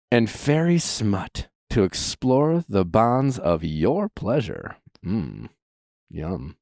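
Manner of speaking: slow low seductive murmur; sultry. Acted. Sultry ad read, slowing down.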